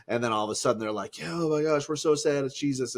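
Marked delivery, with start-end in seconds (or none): 1.2-3.0 slightly raised, hammed-up lament; mock mourning. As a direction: imitate upset friends pouring out their woe. Mimicking the mourning disciples.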